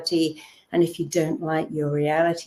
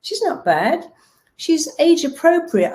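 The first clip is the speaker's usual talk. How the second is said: firm correction; 9 semitones higher than usual. Retold or imitated. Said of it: "I'm like".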